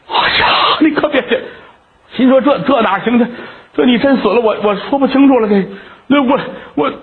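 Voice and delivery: put-on young man frightened she'll jump; alarmed. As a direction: rush to stop her. Alarmed at her threat.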